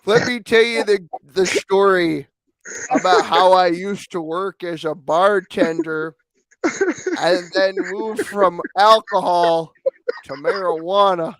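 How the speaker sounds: hammed-up wise elder; Native American impression. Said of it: "Do the Indian voice for me".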